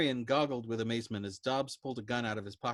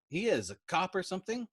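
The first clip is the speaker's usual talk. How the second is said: sniffing; 9 semitones higher than usual. A narrator's reading. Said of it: "sniffing spasmodically".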